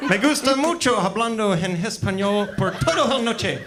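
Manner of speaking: put-on Spanish spoken with a heavy American gringo accent. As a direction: read the Spanish like an American who barely knows it. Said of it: "but with a gringo accent".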